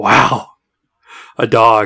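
mock amazement, freaking out. Imitating a coworker who freaks out over a dog: imitating a coworker freaking out over a dog. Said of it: "go freak the fuck out 'cause there's a dog".

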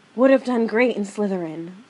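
seductive put-on whisper. Imagining the Sorting Hat speaking as it is lifted away: Sorting Hat seductive whisper. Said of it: "it would seductively whisper".

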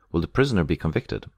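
ordinary delivery

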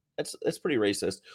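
ordinary delivery

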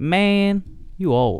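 put-on high, childlike playground kid voice. Retelling what playground kids said to him, the speaker does a kid impression. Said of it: "That's my kid impression".

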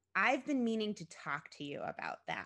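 ordinary delivery

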